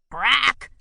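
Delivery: screeched. A narrator's reading. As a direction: screech it out in protest. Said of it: "screeched Grackle".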